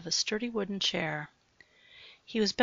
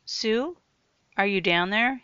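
raised call into the basement; 3 semitones higher, 6 dB louder than usual. Acted. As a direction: call out into the dark. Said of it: "he called out".

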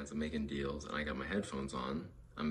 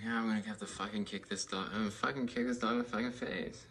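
louder, higher determined threat; mock threat; 5 semitones higher, 4 dB louder than usual. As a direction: psych yourself up to kick.

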